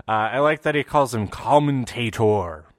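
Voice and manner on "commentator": lightly imitated Neville accent on "commentator"; Neville's accent, condescending. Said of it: "The way he pronounces that".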